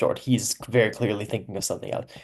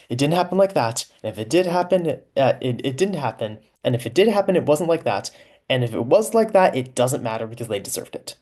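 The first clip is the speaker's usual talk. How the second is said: higher and louder with each clause; spiralling denial; 3 semitones higher, 3 dB louder than usual. Acted. Ekin frantically piles up denials about the sack. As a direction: escalate the excuses, getting frantic. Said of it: "he's saying specifically about the sack".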